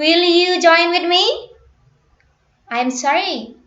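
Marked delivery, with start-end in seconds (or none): 2.7-3.4 pitch falls through the word sorry. Practicing a statement reply in an intonation drill, falling tone on sorry. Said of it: "I will not use falling intonation because it is statement".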